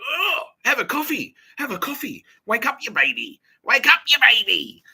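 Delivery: high, slow, loud sing-song jeer; mocking taunt. Needling the housemates, high slow mocking jeer. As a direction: drag it out to needle them.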